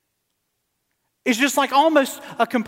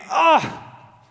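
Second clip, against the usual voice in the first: exasperated Moses; 2 semitones higher than usual. Acted. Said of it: "Moses, even here, is saying".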